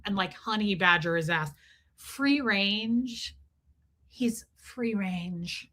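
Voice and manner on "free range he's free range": mock dad. Mocking the dad's excuse.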